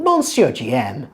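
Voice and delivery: French name in an English speaker's accent; attempted French accent. Real, not acted. Narrator trying French names from a ballet, attempted French accent. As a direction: have a careful go at French pronunciation. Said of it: "my terrible French accent as I try to pronounce these names".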